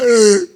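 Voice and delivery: drawn-out fake sob; hammed-up wail of grief; mock crying wail. Man starts crying as rent expires, mock wail. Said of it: "Now I start to cry".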